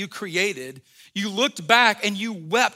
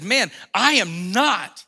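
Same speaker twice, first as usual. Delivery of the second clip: flat denial; 4 dB louder, slower than usual. Retold or imitated. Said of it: "he replied".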